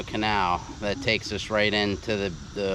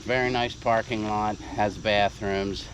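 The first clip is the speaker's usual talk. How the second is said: winded, catching breath between words; 4 semitones lower, 5 dB quieter than usual. Real, not acted. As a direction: talk while still panting from the climb. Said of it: "out of breath climbing up".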